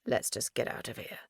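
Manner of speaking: low, unvoiced whisper; hushed whisper. A narrator's reading. Max, pale and shaken, whispering to Tizana. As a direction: breathe it out, afraid.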